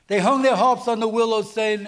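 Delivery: preaching emphasis. Shown as a demonstration. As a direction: proclaim "They hung their harps on the willow" with full force.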